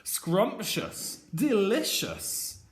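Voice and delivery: dreamy dog savoring the words; dog thinking. Acted. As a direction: voice the hungry dog's longing. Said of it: "and he is thinking".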